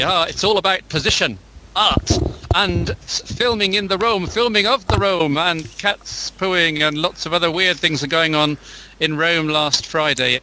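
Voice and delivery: put-on hammy Greek accent, drawn out in places. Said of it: "I wish I could do a proper Greek, Greek accent".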